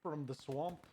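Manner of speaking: a badly done mock Scottish accent, Shrek joke; lightly put-on bad Scottish accent; terrible Scottish accent. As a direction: toss in a cheesy Scottish accent. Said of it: "Terrible Scottish accent".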